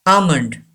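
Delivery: almond as "AH-mund"; almond, drawn "ah", then "mund"; silent L, long A. Shown as a demonstration. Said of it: "L is silent".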